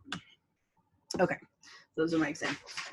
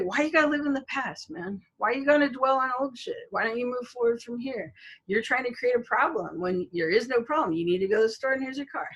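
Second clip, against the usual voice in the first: higher-pitched imitation of a dismissive roommate; mock reproach, pitched up; 4 semitones higher than usual. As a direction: mimic someone brushing off a complaint. Retold roommate dismissing her complaint.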